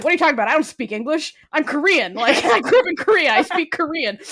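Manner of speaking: indignant Aziz, lightly voiced. Retelling Aziz's comeback to a coworker, mildly indignant.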